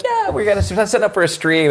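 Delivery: breezy casual message read-out; imitating herself. Quoting her own breezy text to the boss. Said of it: "I'm just like".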